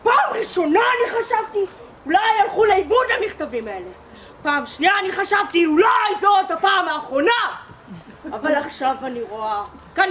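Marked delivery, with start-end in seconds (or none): 0.3-7.3 scolding shout. Acted. Commander scolds the platoon.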